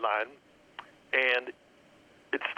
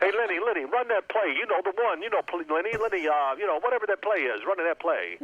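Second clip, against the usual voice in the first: higher, rambling imitation of a nervous coach; Hank Stram; 4 semitones higher than usual. Coach nervous about the mic calls a play, mock flustered. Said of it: "He was so nervous about that mic being on".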